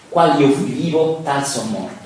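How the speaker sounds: slow, loud opening, falling close; grido declamato. Acted. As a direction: cry out the first half, then settle. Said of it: "gridò". (grido declamato che poi si smorza)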